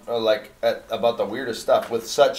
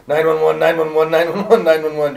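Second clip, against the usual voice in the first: higher and louder, rapping out each nine one one; urgent repeated page; 5 semitones higher, 7 dB louder than usual. Retold or imitated. Pager flashing the church's emergency code, loud and urgent. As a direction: hammer the numbers like a beeping alarm.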